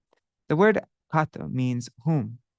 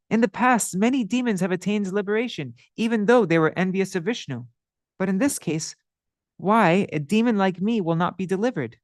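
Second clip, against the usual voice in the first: pleading sinner; 3 semitones higher than usual. Acted. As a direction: beg for mercy, voice lifted. Madhai argues his case.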